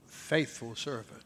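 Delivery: slow, very soft; soft emphasis. Real, not acted. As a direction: linger softly on faithful.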